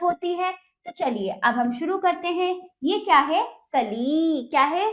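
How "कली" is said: कली with the final ई held long; drawn-out vowel. Shown as a demonstration. Teacher shows pupils the long vowel, drawn out. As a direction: stretch the ई at the end of कली. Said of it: "खींच कर करेंगे".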